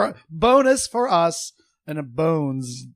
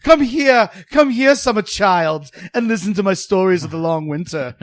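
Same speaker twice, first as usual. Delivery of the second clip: mock storyteller; 4 dB louder than usual. Mock wise elder speech.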